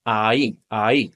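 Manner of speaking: ay, ay as ah-ee, shorter each time; "ay" tightening toward one syllable; vowels practised together. Shown as a demonstration. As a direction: glide from ah into ee on "ay". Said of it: "So together, that's".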